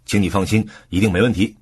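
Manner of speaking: "没问题" emphasized as a guarantee; stress on 没问题. Shown as a demonstration. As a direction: put the weight on "没问题" to promise the result. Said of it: "重音放在 “没问题” 上". (重音放在“没问题”上，保证结果)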